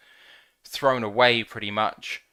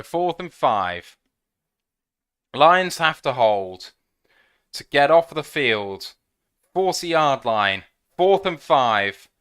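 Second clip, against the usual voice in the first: louder, slow, tense fourth-down call; tense build-up; 6 dB louder than usual. Real, not acted. Fan bracing for the Lions' fourth-down stop, slow and tense. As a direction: hold your breath and call it out.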